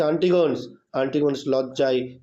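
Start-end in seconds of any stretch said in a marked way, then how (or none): 0.0-0.7 calling the name out a bit louder, still half-read; a mild read-aloud shout of the name; mock shout. Emperor Alexander calls out to Antigonus, a mild mock shout. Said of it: "Sekendar চেঁচিয়ে উঠে বলছে".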